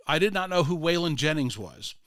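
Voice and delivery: careful, uncontracted English in a Hispanic accent; imitated Hispanic accent. Groundskeeper explains the daily visitors, in imitated Hispanic accent. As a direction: retell it in an immigrant's Hispanic accent. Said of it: "Hispanic accent".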